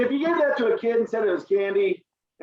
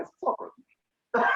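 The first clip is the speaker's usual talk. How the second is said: high, slow sell; 11 semitones higher, 4 dB quieter, much slower than usual. Retold or imitated. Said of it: "what I told my girlfriend".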